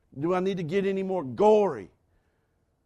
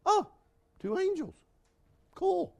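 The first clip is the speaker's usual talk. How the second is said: awed understatement; 12 semitones higher than usual. Pretend. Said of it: "I'm gonna say something at least as small as".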